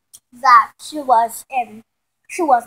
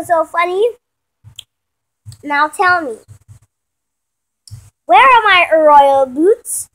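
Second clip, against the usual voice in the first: mildly voiced haughty princess, slow at the end; lightly hammed lofty command; royal demand; 3 semitones higher, 7 dB louder than usual. The speaker asking sister for her royal boots, lightly haughty.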